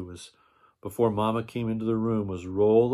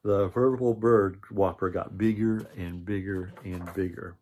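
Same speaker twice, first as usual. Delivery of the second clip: lively read-aloud narration with character lines; storybook reading. A narrator's reading. Reading a picture book aloud to children, lively storytelling.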